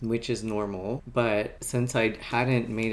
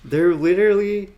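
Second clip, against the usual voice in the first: exclaiming; 8 semitones higher, 9 dB louder than usual. Real, not acted. Realizing tabs were fine.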